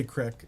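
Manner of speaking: "crick" with a short i; regional pronunciation. Shown as a demonstration. Streamer reading out regional word, "crick" with short i. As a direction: say "crick" to rhyme with "brick". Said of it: "They say".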